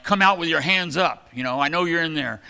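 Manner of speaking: hammed-up police bullhorn demand; police shouting orders. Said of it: "you know, like".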